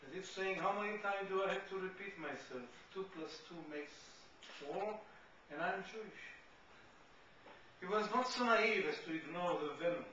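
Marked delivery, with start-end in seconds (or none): 0.6-6.2 slightly irritated. Retold or imitated. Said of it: "matter-of-factish way, slightly irritated".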